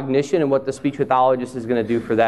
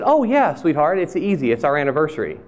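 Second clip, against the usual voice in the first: wife's voice. Retold or imitated. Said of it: "and she said".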